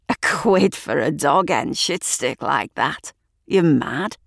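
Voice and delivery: a gruff local man, half whispered; rough bloke voice. Acted. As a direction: lean in, wheedling for a smoke. Man haggles over cigarette.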